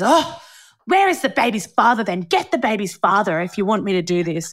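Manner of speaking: huffy high 'oh', then impatient demand; mildly snippy retold order; cranky and abrupt, imitated. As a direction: imitate a cranky customs officer. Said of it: "cranky and abrupt about it".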